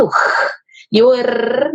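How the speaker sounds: R said slowly, the throat R then the tongue-tap R; slow demo of both Portuguese R sounds; two kinds of R. Shown as a demonstration. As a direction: demonstrate each "R" sound slowly and distinctly. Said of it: "O R que a gente faz lá no fundo da garganta".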